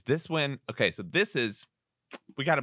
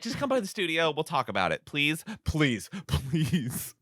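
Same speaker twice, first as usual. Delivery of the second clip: higher-pitched mock begging; coaxing retold plea; pleading; 5 semitones higher than usual. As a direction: wheedle playfully, drawing out the pleases. Voicing woman pleading with him.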